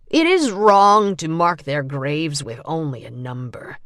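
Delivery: grieving but held in check; holding back emotion. A narrator's reading. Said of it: "struggling to keep his emotions in check".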